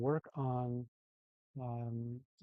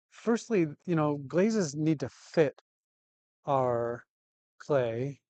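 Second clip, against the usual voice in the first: raised voice over the noise; yelling over helicopter; 2 semitones higher, 7 dB louder, slower than usual. Real, not acted. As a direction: speak up over a loud helicopter. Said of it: "Sorry about the helicopters going over the top".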